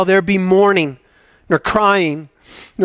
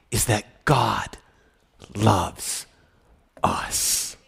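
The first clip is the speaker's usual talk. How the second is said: hushed; 7 semitones lower, 7 dB quieter, much slower than usual. Acted. Hushed climax of sermon.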